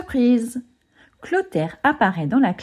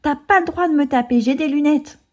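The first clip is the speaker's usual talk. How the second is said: scared pleading; 7 semitones higher than usual. A narrator's reading. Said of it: "déglutit Agnan".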